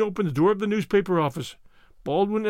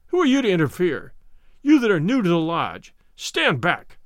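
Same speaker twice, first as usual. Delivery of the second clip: angry; 4 dB louder than usual. Acted. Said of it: "he cried".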